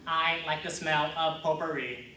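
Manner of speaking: even robotic monotone. Acted. Android's odd backup phrase, robot voice. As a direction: recite it like a backup chip. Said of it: "record them in a robot voice".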